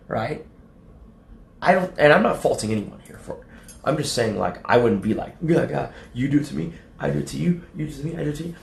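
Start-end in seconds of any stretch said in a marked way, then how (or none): 5.4-8.6 mock tit-for-tat squabble. Mocks tit-for-tat retaliation.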